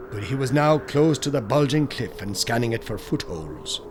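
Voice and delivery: ordinary delivery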